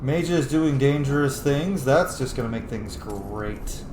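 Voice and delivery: slow dragged sarcasm; sarcastic lament. Real, not acted. Gamer sarcastically complaining about the mages. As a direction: drawl it out bitterly.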